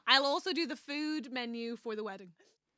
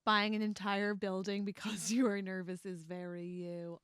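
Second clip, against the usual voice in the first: lightly Russian-accented read of the line; 3 semitones lower, 4 dB quieter than usual. Shown as a demonstration. Quoting Ilya to her co-host, hint of Russian accent. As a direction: try a faint Russian accent on Ilya's line. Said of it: "better when you do it in your accent".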